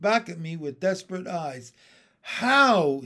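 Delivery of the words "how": high, loud drawn-out question; stretched, pleading character voice; bewildered newcomer frog. A narrator's reading. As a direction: ask helplessly how. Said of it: "he said".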